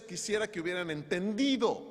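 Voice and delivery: full-voiced acted plea; pleading lament, no tears; mild cry of longing. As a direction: cry it out in earnest, lightly acted. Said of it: "el clamor de Jesús es".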